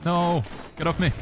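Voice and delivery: sudden high yell; startled shout. Real, not acted. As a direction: shout in real alarm. Attacked in game, reacting.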